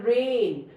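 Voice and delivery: "rain" with a long A, falling; long vowel sound. Shown as a demonstration. Teacher models first vowel speaking, "rain" with long A. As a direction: stretch the A in "rain", the I silent. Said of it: "इनकी long sound बोलनी है".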